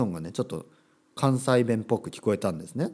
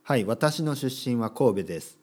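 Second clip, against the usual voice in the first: stiff textbook dialogue. Shown as a demonstration. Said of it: "言わねえだろ".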